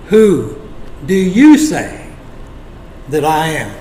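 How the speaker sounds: deliberate pauses, "Who" hit firmly; penetrating question. Acted. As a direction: ask it piercingly, pausing after "Who" and "say". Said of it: "asked that penetrating question".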